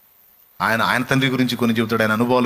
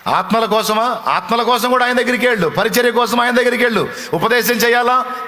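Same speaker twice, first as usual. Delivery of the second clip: very high, loud near-shouted sermon; impassioned preaching; 8 semitones higher, 3 dB louder than usual. Acted. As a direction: cry it out at the peak of the altar call. Peak of the sermon. (గట్టిగా అరుస్తూ ఉద్వేగ ప్రసంగం)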